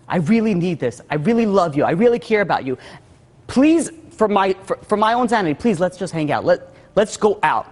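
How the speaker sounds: lightly acted pleading, stressing each plea; retold begging. Wife begging husband to hang out, mildly pleading. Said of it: "more of a begging".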